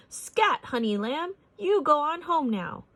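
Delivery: high, loud shooing cry; shooing screech. A narrator's reading. Darla shooing the stray dog, high loud cry. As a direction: chase the dog away, screeching. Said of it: "Darla screeched".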